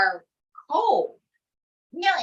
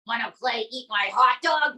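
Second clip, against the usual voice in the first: Trump impression. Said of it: "Donald J Trump".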